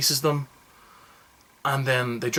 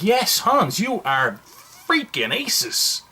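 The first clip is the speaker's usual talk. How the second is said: mock kids cheering; 7 semitones higher, much slower than usual.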